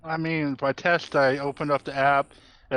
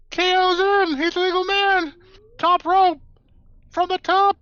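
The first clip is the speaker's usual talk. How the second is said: wrestling commentator; 13 semitones higher, 4 dB louder than usual. Pretend. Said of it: "Jim Ross clip".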